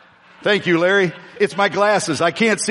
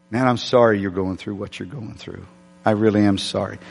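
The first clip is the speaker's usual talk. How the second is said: lower, gentle apology; retold sincere sympathy; 6 semitones lower than usual. Pastor consoling the angry man at the car wash, sincere sympathy. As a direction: offer sincere condolence in a low voice.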